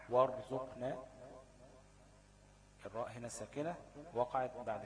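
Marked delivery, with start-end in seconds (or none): 0.1-1.0 وارزقنا said with a full, heavy r after the fatha; the teacher gives the example وارزقنا with a heavy r. Shown as a demonstration. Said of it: "نحو".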